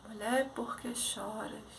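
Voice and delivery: a calm voice asking tenderly; soft gentle voice. Retold or imitated. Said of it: "aquela voz assim". (voz suave e lenta)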